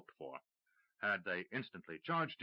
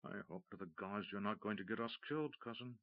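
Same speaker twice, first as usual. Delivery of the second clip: whispered; 5 dB quieter than usual. Acted. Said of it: "rolled his eyes and whispered".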